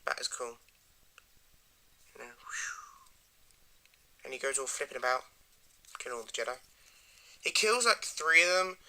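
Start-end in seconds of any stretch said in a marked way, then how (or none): 2.4-3.1 soft airy whoosh; whooshing noise. Retold or imitated. Showing how he goes all flipping about, soft whoosh. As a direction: imitate a quick whoosh under the breath.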